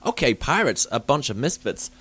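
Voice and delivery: put-on American voice, badly faked; terrible American accent. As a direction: do a poor mock American accent. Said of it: "probably my best American accent as well".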